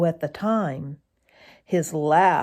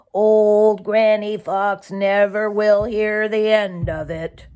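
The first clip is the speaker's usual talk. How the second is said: lightly voiced jay; 3 dB louder than usual. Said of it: "grumbled Sammy Jay".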